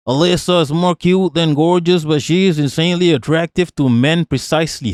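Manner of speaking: lightly put-on Yankee reading voice; Yankee accent. Streamer reading out a tweet about two skaters, light Yankee accent. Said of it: "Let me do a Yankee accent".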